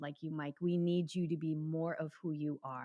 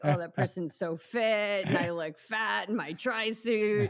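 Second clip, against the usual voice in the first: mock insecure ego voice; 2 semitones higher, 5 dB louder than usual.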